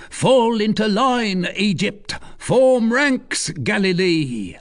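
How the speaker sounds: loud, high marching orders; commanding cry. Acted. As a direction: bark orders to the ranks. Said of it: "he cried".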